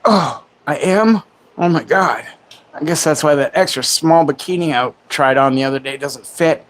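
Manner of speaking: hammed-up fake astonishment; mock surprise. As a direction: feign shock at the insult. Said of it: "trolls that come in and be like".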